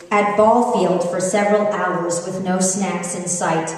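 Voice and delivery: slow, drawn-out reading; slow tweet reading. Real, not acted. Mom reading her tweet to the audience, slow. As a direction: savor each word slowly.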